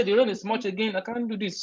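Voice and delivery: a touch of mock whining; mock complaining. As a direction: complain like fed up with the heat. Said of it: "We say".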